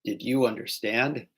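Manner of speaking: slow, careful American "Did you understand", each word separate; measured American accent, final word drawn out; standard American. Shown as a demonstration. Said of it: "in, like, America, you say".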